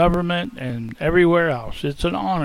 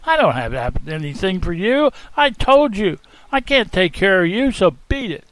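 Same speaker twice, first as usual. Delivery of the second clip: angry shout; 3 semitones higher than usual. Acted. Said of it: "I angrily jumped up and shouted at him".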